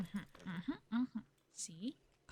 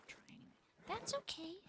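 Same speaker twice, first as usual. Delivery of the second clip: hushed, gentle words to a horse; calm the animal quietly; much softer coaxing; soft soothing; 10 semitones higher, 7 dB quieter than usual. Real, not acted.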